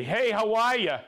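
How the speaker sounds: "how are ya" run together like Hawaii; Maine-style greeting. Shown as a demonstration. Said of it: "that's how I say hi to everybody".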